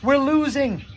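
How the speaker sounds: high, loud rooftop alarm; megaphone shout. Acted. Jonder on the library roof shouting a loud alarm through a megaphone. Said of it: "shouted from a megaphone".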